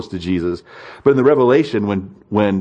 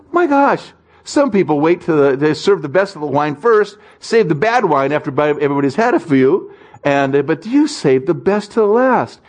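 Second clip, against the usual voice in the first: a jolt of delighted astonishment; surprised master; 5 semitones higher than usual. Retold or imitated. Master of the feast tasting the new wine, amazed.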